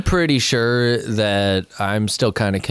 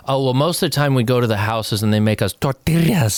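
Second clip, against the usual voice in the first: mimicking a returned missionary. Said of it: "You're like".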